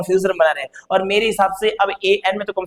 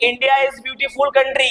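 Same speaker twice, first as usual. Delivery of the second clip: India is beautiful country, slowly; quoted example, slow; 4 semitones higher, much slower than usual. Shown as a demonstration. Teacher quoting an example sentence, slowly. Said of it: "कभी कभी".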